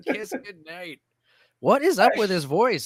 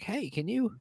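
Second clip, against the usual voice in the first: Uncle Dickie. Retold or imitated. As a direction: ask it as a joke-telling uncle. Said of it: "joke my Uncle Dickie told me".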